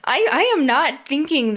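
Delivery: hushed teasing whisper; conspiratorial whisper. Real, not acted. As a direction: lean in and whisper it.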